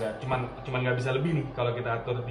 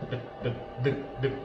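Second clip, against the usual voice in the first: repeated short "deg" thuds in the usual voice; imitated machine thudding. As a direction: lightly mimic a rough machine noise. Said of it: "agak kasar ya suaranya".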